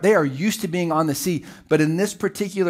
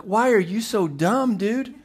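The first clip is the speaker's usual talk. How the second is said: exasperated groan; 6 semitones higher than usual. Retold or imitated. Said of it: "they groaned".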